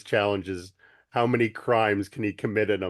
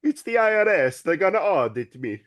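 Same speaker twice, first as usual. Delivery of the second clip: mock panic; 10 semitones higher, 6 dB louder than usual. Mock panic about audit.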